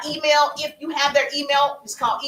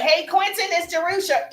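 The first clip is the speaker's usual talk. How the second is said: bright greeting pitched higher; upbeat greeting; 5 semitones higher than usual. Shown as a demonstration. Coach demoing a DM greeting to a follower, upbeat and higher. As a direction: greet him like an old friend. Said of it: "I would be like".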